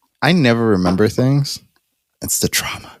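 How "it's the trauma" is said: quiet, muttered whisper under the breath. Remarking on forgetting things again: whispered under his breath. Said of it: "My man whispered under his breath".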